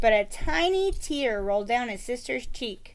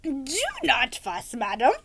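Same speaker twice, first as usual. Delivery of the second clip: gallant knight. Acted. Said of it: "Sir Fartsalot said".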